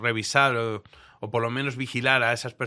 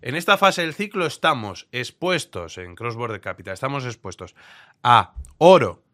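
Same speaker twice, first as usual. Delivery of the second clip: emphatic recited quote; 4 dB louder than usual. Retold or imitated. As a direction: spell out each item with weight. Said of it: "esto es lo que decía él".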